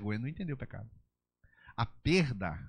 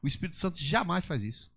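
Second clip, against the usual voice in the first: ordinary delivery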